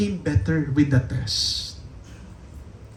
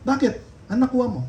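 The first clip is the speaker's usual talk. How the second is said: put-on much higher, eager child calling his father; bursting with news, calling for dad; the happy boy calling out to his father; excited child; 13 semitones higher, much faster than usual. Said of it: "umuwi ako, napakasaya ko".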